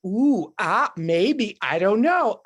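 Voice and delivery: lightly teasing "maybe"; a hint of playful mischief. Shown as a demonstration. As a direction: toy with the idea, coy. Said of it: "this little playful".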